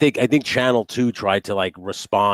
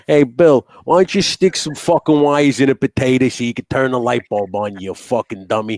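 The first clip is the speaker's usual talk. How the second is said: heckling shout; 4 semitones higher, 6 dB louder than usual. Acted. Heckling Bill Nye.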